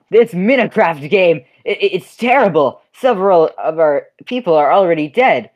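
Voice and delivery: hammed-up upset townsman; townsfolk yelling. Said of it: "some yelling".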